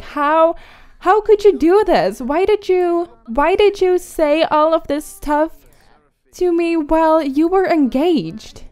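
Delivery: mildly hammed-up outrage, demanding an explanation; acted mad. Betrayed girlfriend confronts engaged cheater, mock angry. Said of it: "extremely mad".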